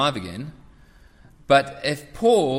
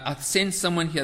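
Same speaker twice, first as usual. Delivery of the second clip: psychic; 4 semitones higher than usual. Acted. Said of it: "this is my impression of a, a psychic".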